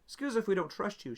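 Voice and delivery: lightly voiced wary officer, keep it tight; officer doubting the prisoner, cool and suspicious. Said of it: "Zoe's like".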